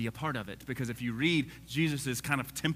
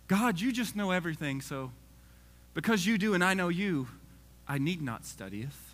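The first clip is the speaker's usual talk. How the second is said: comical; 5 semitones higher than usual. Pretend. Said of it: "I phrase it in a comical way".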